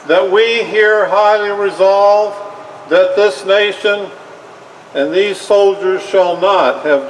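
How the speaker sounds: measured, solemn oratory, phrase by phrase; formal speech. Acted. President dedicating a battlefield cemetery, solemn formal oration. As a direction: deliver it like a president at a graveside.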